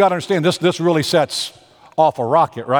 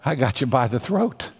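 scheming thought; 4 semitones lower, 4 dB quieter than usual. Acted. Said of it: "Laban thinks".

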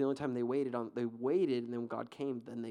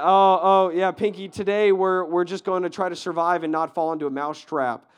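mock feeble mouse; 4 semitones higher, 10 dB louder than usual. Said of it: "like, I".

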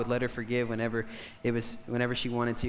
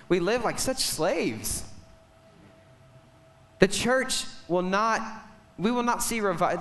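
raised, emphatic preacher's delivery; impassioned preaching; 6 semitones higher, 3 dB louder than usual. Real, not acted. Preacher urging the church toward revival, impassioned. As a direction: drive the point home to the congregation.

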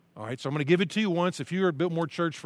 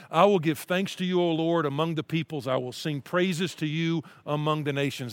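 scripture reading. Acted. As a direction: read it as a heartfelt prayer.

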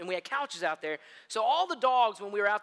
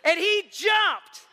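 laughing; 9 semitones higher, 8 dB louder than usual. Real, not acted. Laughing while telling the story.

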